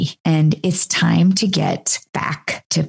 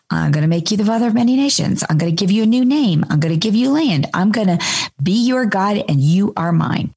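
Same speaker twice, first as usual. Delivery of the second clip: quick, lightly voiced promising God; a hint of an eager God; voicing God; faster than usual. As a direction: rattle off God's promises eagerly. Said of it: "what God is going to do".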